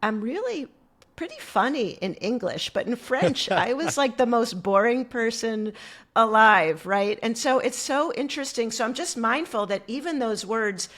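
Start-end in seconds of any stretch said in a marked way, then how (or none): 0.0-6.8 joking self-mockery. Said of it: "I would joke".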